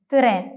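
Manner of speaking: "തിറേൻ" with a short vowel between t and r; correct Turkish pronunciation. Shown as a demonstration. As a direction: split "തിറേൻ" into tı-ren. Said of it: "എന്നാണ് പറയേണ്ടത്".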